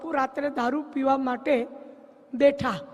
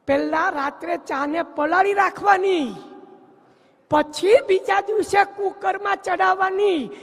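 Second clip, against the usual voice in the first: mock instruction; 5 semitones higher than usual. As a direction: lecture him like an expert. Mock expert advice.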